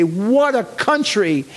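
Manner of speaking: amused father marvelling. Retold or imitated. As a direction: savor the phrase lightly.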